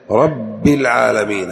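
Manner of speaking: رب with a firm double ب, slow; geminated ba in رب; doubled ba. Shown as a demonstration. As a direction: hold the ب in رب. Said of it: "هذا تشديد".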